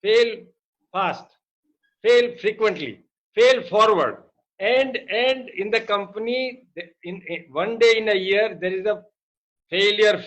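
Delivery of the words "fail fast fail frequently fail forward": each fail hit, the last two louder; slogan read out with fail stressed each time; punchy slogan. Retold or imitated. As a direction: recite the slogan, landing every fail. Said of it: "The, the slogan says".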